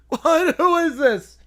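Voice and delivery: high, loud, startled answer on the phone; startled kid. Acted. Whiny kid picks up the prank call, shocked. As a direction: jump like a kid caught off guard.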